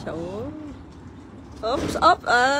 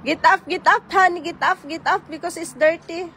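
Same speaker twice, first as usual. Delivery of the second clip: sharp playground warning; 5 semitones higher, 4 dB louder than usual. Real, not acted. Child fell, mom calls.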